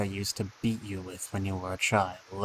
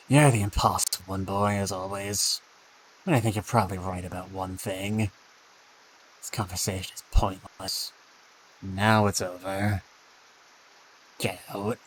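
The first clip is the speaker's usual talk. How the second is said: put-on scornful father in a half Russian, half Scottish accent; angry father, mixed Russian-Scottish accent; 2 semitones lower than usual. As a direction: sneer it in a muddled Russian-Scots accent. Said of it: "halfway in between a Russian and a Scotsman".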